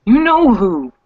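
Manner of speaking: high, loud, rattled demands; agitated confrontation. Acted. Sasha cornered against a dresser, loud and rattled. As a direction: corner her about who told.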